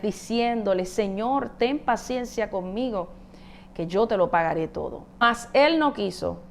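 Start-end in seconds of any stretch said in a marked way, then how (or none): 0.9-5.0 pleading on knees. Retold or imitated. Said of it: "le rogaba de rodillas".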